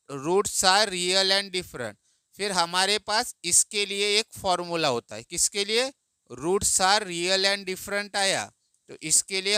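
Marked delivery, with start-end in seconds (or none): 0.1-2.0 very slow, every word spaced out; slow dictation. Shown as a demonstration. Teacher dictating the answer line to students. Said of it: "लिखना". 6.3-8.2 slowly repeating the phrase; slow dictation. Shown as a demonstration. Teacher recalling the dictated phrase for students. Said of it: "different लिखना।".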